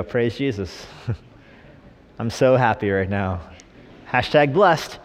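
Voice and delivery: understated fake gratitude; mock thankfulness. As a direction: claim joy without meaning a bit of it. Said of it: "do you go".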